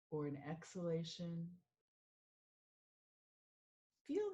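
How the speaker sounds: measured meditation guide with long pauses; guided meditation. Acted. Mindfulness coach leading listeners through a sound meditation, unhurried guiding voice. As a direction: guide them gently into stillness, phrase by phrase.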